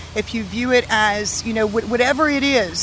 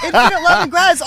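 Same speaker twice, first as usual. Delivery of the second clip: mock rapturous; 7 semitones higher, 8 dB louder, faster than usual. Gushing over the perfect ending.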